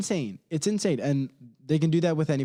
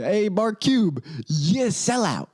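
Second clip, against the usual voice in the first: hammed-up higher call-out of a billionaire; mock call-out; 5 semitones higher than usual. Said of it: "old Lookity Duke is gonna tell you".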